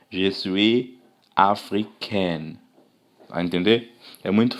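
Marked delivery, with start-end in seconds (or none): 0.1-2.6 "Je suis africaine" spoken very slowly and softer; teacher repeats the model sentence; slow French phrase. Shown as a demonstration. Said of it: "Aqui já é diferente".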